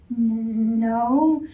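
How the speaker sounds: nervous stammer; stuttered. Acted. Frightened Fox denying to Bear, stammered. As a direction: stammer it out scared. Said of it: "he stuttered".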